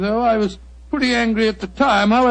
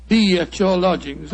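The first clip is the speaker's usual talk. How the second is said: mocking high-handed; 3 semitones lower than usual. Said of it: "Pretty high-handed message".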